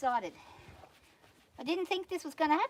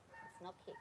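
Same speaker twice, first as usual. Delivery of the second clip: breathy whisper, much lower; whispered warning; 6 semitones lower, 20 dB quieter than usual. Real, not acted. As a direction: hush the mare out of kicking. Quietly warning the horse.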